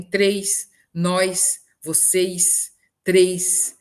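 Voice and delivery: "três, nós, vocês" ditos treis, nóis, voceis; i inserido. Shown as a demonstration. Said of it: "é colocar um I". ("três" como treis, "vocês" como voceis)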